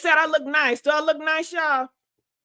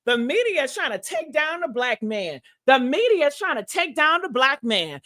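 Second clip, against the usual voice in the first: mocking commenters. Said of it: "They are saying".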